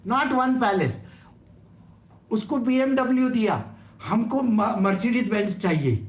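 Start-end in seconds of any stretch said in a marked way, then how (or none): 2.3-6.0 demanding wife. Retold or imitated. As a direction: rattle off a queen's demands. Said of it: "just imagine this being said by one person".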